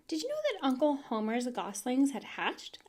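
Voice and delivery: lightly voiced eager girl; bright little farm girl telling news; young girl Fern. Girl Fern tells her parents the news, lightly voiced eager girl. Fern's voice in the story.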